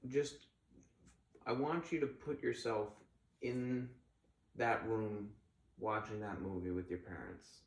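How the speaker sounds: gently walk them through the feeling; calm crisis counselor. Acted. Leads a visualization.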